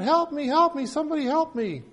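high, desperate cries for help; crying out for help. A narrator's reading. Man hanging off a cliff crying out high for help. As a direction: cry out high like a man dangling from a branch. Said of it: "he's crying out".

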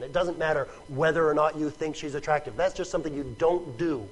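ordinary talk, nothing marked

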